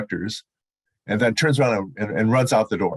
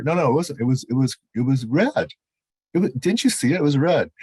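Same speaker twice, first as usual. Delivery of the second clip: higher, insistent retold argument; insist, talk over the others; insistent arguing; 5 semitones higher than usual. Judges arguing what they saw.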